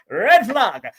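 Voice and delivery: mock Jamaican call of red flag. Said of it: "this Jamaican girl used to say".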